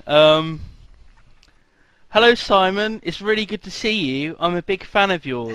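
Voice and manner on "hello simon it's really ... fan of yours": high, eager fan voice; a hint of a starstruck fan; mock eager fan. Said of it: "That's a good me".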